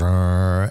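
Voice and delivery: low droning "uh"; demonstrating bare phonation; vocal cord hum. Shown as a demonstration. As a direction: buzz the vocal cords on a low "uh". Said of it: "so the vocal cords".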